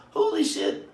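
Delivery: mock shock; shocked exclamation. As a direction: gasp it out in disbelief. Realizing he is being robbed.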